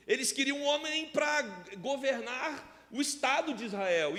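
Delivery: high, driving pulpit delivery; forceful preaching. Real, not acted. Pastor correcting the congregation's assumption, high forceful preaching. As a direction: argue it hard to the congregation, pitch up.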